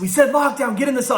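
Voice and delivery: retold guard order. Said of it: "guards come running up on me and said".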